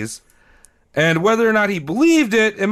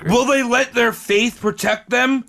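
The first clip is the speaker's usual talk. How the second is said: higher, dramatic cliffhanger narrator; drunk cartoon narrator; 4 semitones higher than usual. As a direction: tease the next episode like a cartoon outro. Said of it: "Why do you sound like a drunk guy at the end of a seventies cartoon?".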